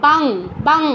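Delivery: "বাং" closed on a ng sound with no vowel after; ng pronunciation. Shown as a demonstration. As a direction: end "বাং" on a pure velar nasal. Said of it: "ঙ উচ্চারণ হচ্ছে অনুসার". ("বাং", শেষে ঙ হসন্তের উচ্চারণ)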